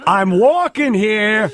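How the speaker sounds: loud, slow, hammy street tough; bad acting. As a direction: overplay the New York tough guy. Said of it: "I delivered it like Al Pacino".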